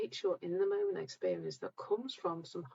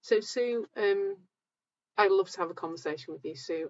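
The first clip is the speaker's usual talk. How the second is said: louder after a mic check; speaking up; 7 dB louder than usual. Real, not acted. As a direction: lift the volume so viewers hear. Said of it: "I'll speak up a bit then".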